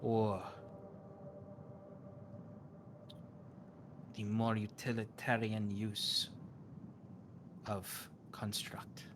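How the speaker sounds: slow, grave mystic lecturing; a cryptic oracle correcting a guest; a hint of a stern priestess; solemn seer. GM voices the seer on magic.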